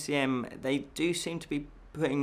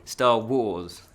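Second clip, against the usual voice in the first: laughing repeat; 6 dB louder than usual. Shown as a demonstration. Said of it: "I say Star Wars wrongly".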